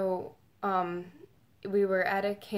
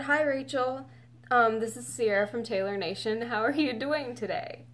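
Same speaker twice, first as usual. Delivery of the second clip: higher, lightly imitated friendly caller; phone caller from Taylor Nation; 3 semitones higher than usual. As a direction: lightly voice the higher-pitched woman on the call. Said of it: "And she said".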